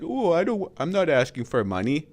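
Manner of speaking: high mock wail easing off; half-hearted put-on whine, starting high; mock crying. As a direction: mockingly imitate a crybaby. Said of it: "cry and fucking be like".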